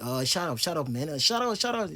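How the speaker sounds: teasing "shut up" with a smile, not angry; teacher shows the friendly joking way, playful. Shown as a demonstration. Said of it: "Avec un sourire".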